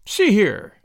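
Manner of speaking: a sudden loud, suspicious "See here"; suspicious loud warning. A narrator's reading. American cousin warning the young pair, suddenly suspicious and loud. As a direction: challenge them sharply, raising the voice. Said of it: "seemed to grow suddenly suspicious".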